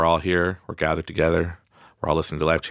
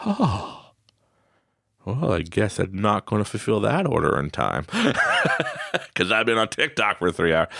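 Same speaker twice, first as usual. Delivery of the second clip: laughing sheepishly. Pretend. Lazy self after TikTok.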